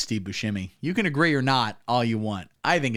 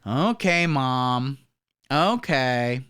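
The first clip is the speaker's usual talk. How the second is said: lightly voiced teen giving in; grudging teenager; much slower than usual. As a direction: drag out a teen's reluctant okay. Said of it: "you go to your parents and go".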